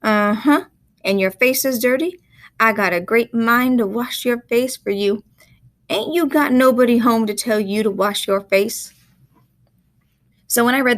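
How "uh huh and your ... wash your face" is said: higher Southern country woman scolding; country dialect. Acted. Woman scolds the boy about his dirty face, country dialect. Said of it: "She sounds country".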